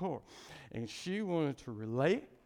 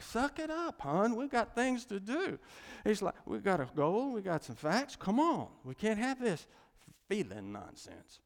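lightly mocked no-nonsense man, pitched up; mock brisk pep talk to a crying partner; imitating impatient fiancé; 5 semitones higher than usual. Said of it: "he's over here like".

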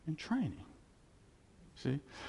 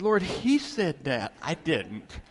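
mock plea to God; 3 dB louder, slower than usual. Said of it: "I said".

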